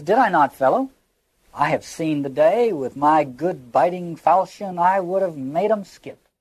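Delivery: lightly acted old soldier telling his tale; hint of an old campaigner, declaimed with emphasis; old soldier's boast. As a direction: recite it as a veteran's well-worn boast. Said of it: "like some old weary soldier".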